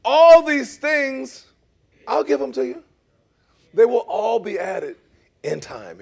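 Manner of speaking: loud, booming voice of God; God's big promise, drawn out. Acted. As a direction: proclaim it grandly as God.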